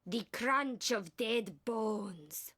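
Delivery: very slow, stretched dramatic reading; milk every word slowly; laid-on emotion. Acted. Actor told to lay it on, overdone emotion. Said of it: "Come on, just lay it on".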